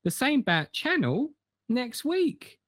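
hammed-up old-fashioned northern host; mock northern accent. Co-host thanks listeners in a lightly put-on northern accent. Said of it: "a little bit northern".

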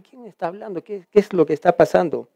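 just woken, still in a daze; a sleepy guard murmuring in the dark; drowsy, half asleep. Acted. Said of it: "tal vez en su letargo a despertarse".

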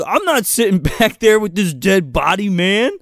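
high-pitched whiny complaint; put-on high voice of a reluctant passenger; mock whining. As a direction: whine in protest, half amused. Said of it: "This guy whines almost as much".

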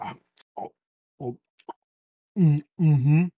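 short savoring grunts building to loud, high hums; hammed-up "mm" of pleasure; imitated eating moans. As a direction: act out devouring something delicious. Imitating himself devouring the burger.

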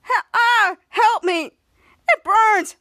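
loud, high hammed-up cries; dramatic pain. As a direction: wail for help, overacting the burn. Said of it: "Brad being so dramatic".

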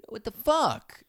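loud, high outraged outburst; mock angry dad. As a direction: act out a dad exploding on finding out. Dad's imagined outraged reaction.

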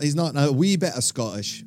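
a wandering attempt at Scottish; put-on Scottish accent. Host joking about his golf buddy, shaky grip on a Scottish accent. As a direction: try a loose Scottish accent. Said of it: "I don't know where the accent's going there".

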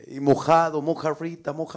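lightly imitated American bartender accent; mock American accent. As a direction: keep taunting with an American accent. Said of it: "Es como hablan esos güeyes". (imitando acento estadounidense, burlón)

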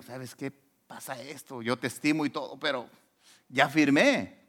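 a soft, sorry king's voice; regretful king. Retold or imitated. King telling Daniel he already signed, softly regretful. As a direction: let the king admit his hands are tied, quietly.

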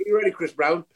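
hammed-up to me, to you routine; playful comedy double act call and answer; Chuckle Brothers bit.

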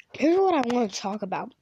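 talking while eating; mouth full. Real, not acted. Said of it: "Sorry, I'm eating a bit".

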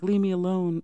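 put-on Sydney shouts at the two boys through the door; mock yell. Sydney locks out both suspects.

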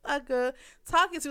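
high, loud indignant snap; outraged reply to being called son; mock outraged. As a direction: play the offended wife, loud and high. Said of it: "I be like".

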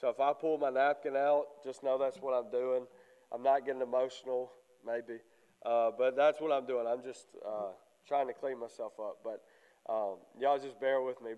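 stuffy, congested voice. Real, not acted. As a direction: talk through a congested head. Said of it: "a little bit congested".

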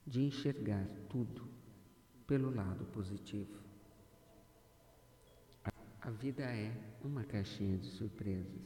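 measured, deliberate meditation delivery with long pauses; guided affirmation. Acted. Guide leading a listener to see life's positive side, guided affirmation. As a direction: guide the listener phrase by phrase, letting each settle.

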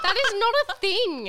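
laughing disbelief at a silly answer. Real, not acted. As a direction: protest through real laughter. Friend laughing at odd game answer.

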